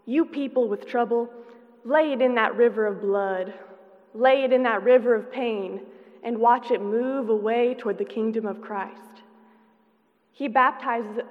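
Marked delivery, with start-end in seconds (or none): 0.0-9.2 louder sing-song preacher calling out. Acted. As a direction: call across the river like a revival preacher. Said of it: "calls to the people on the banks in a sing-song voice".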